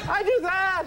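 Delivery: high, incredulous comic questioning; hammed-up observational comedian voice; Jerry Seinfeld. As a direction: pitch it way up, querulous sitcom banter. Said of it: "Such a Seinfeldy bit".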